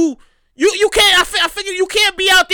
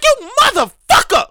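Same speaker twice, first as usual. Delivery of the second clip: mock outrage; 7 semitones higher, slower than usual. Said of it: "I'm like".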